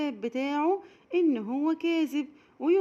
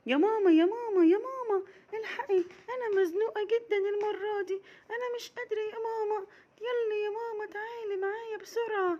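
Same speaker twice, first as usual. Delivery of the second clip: put-on high, louder desperate child's call with a sob; 10 semitones higher than usual. Raghad calling mama louder this time, high desperate child voice. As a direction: call for mama as if it cannot wait. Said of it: "وقالت لها بصوت اعلى".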